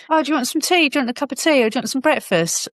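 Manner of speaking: lightly voiced partner, high and breezy as if nothing happened. Partner offering tea the morning after, mock cheerful voice. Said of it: "he went".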